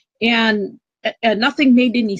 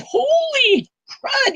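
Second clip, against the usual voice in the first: shocked gasp; much slower than usual. Retold or imitated. Retold sudden fear at gunpoint.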